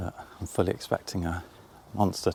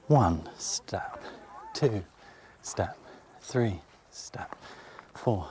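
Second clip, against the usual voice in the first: counting steps; much slower than usual. Real, not acted. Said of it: "Should we count them".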